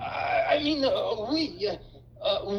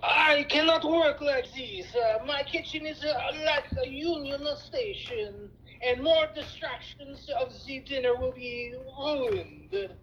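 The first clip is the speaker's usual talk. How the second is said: put-on French accent. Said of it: "French accent".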